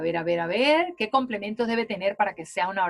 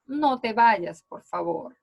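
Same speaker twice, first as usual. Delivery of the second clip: pleading; slower than usual. Shown as a demonstration. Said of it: "en sentido de una súplica".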